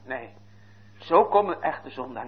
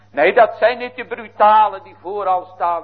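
higher and louder, indignant; fervent rebuke; 7 semitones higher, 8 dB louder than usual. Acted. Preacher rebukes brazen sinners before the congregation, loud and high. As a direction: scold the bold ones from the pulpit.

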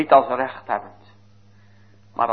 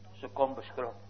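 hushed repeat; 12 dB quieter than usual. Acted. Preacher hushes to show the timid woman, softly. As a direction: drop to a hushed, awed "Ze komt beschroomd".

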